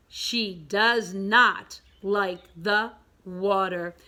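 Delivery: drawn-out word-by-word reading; slow read-along. Shown as a demonstration. Teacher leads pupils through the story's ending, slowly. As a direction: take each word slowly.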